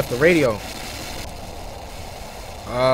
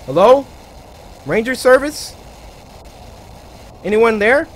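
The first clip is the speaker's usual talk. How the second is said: raised, questioning call. Pretend. Player hailing whoever is at the empty camp, calling out. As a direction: call out to see if anyone answers.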